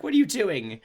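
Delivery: high mock grandma asking. Grandma questions granddaughter over beer, high mock surprise. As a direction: play the startled grandma. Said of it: "her grandma's like".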